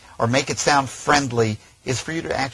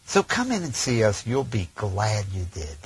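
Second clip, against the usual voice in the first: really smiling; 3 semitones lower than usual. Shown as a demonstration. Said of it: "listen to the difference".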